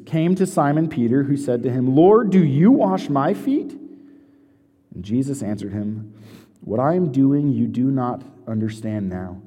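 measured, solemn reading of scripture; unhurried Bible reading to the congregation. Acted. Reads scripture aloud.

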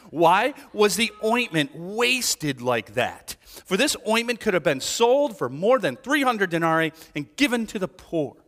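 mildly indignant, emphatic quoted complaint; a touch of outrage, stressing key words. Acted. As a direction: read it as a pointed objection. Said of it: "who said to themselves indignantly".

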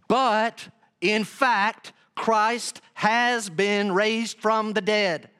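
slow, weighty pulpit declaration; drawn-out, emphatic verse reading; scripture proclamation. Acted. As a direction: proclaim the verse deliberately, phrase by phrase.

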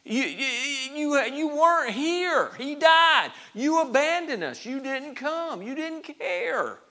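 high, loud accusing cry; acted wail of betrayal; anguished accusation. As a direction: accuse him at the top of your range, stretching the last words. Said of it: "they're questioning his concern and his care".

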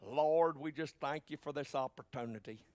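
mock Southern-accent prayer. Pastor mocking prayer leaders, mock Southern-accent prayer. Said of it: "say it with a Southern accent".

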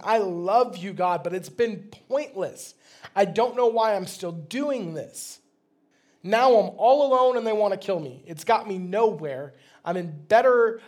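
honest, worn-out cry to God; raw frustrated prayer. Retold or imitated. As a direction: pour out an exasperated lament. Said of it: "being honest, being vulnerable here".

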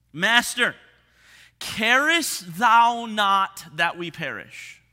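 desperate cry. Retold or imitated. Disciples crying out in the storm.

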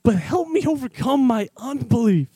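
crying out. Acted. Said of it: "The father instantly cries out".

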